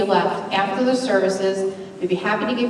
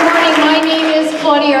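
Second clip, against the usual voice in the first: bright greeting; 6 semitones higher, 5 dB louder than usual. Real, not acted. Greeting congregation from platform.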